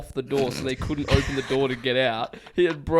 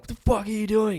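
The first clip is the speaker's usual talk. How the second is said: angry confrontation; 10 semitones higher than usual. Retold or imitated. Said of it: "being like".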